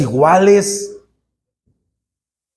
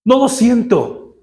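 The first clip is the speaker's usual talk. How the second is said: higher, sulky refusal; stubborn refusal; 4 semitones higher than usual. Retold or imitated. Man refusing to sing to God, sulky and higher. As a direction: refuse like a sulking child, pitched up. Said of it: "Y yo le dije al Señor".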